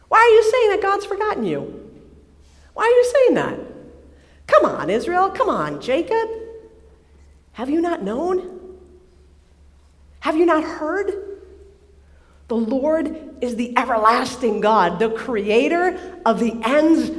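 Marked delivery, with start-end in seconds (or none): 0.1-11.1 much higher, pressing appeal; urgent plea. Acted. Preacher urging Israel not to feel forgotten, pressing higher. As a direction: plead with them to remember.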